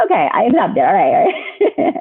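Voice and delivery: laughing it off, conceding; chuckling surrender to a sign. Retold or imitated. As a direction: give in through a laugh. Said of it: "I was like".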